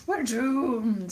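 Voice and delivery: subdued echo of comic despair; understated mock-gloomy refrain; mock doom echo.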